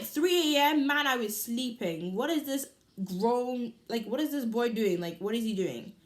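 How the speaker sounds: indignant and loud at being woken; outraged disbelief. Retold or imitated. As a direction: blast the late-night text in mock outrage. Outraged at 3 am text.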